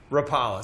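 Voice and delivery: "Rapala" said ruh-PAH-luh; preferred pronunciation. Shown as a demonstration. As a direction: open AH in the middle of "Rapala". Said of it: "I like rap-, saying Rapala".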